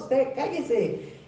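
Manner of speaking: "usted cállese" drawn out very slowly, word by word; slow stern order. Acted. Jesus slowly silencing the demons, drawn out. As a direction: spell out "usted cállese" slowly, each syllable weighed.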